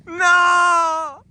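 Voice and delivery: high, loud alarmed no; alarmed shouts. Real, not acted. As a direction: cry out in alarm. Watching the partner slip.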